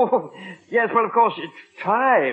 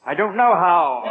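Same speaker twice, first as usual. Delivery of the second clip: nervous laugh. Acted. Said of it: "there I go again".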